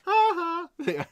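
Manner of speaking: high, loud fake "ha ha"; a put-on laugh at the chat; mock laugh. Real, not acted. Laughing at the first comments rolling in on stream.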